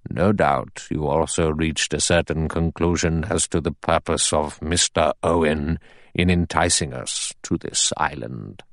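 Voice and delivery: a hint of a grave old judge addressing the men. Narrator voices the judge.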